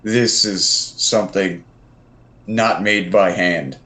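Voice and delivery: slow, measured in-character musing; lightly voiced adventurer, taking time over each phrase; in-character awe. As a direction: marvel slowly at the workmanship. Player speaks in character.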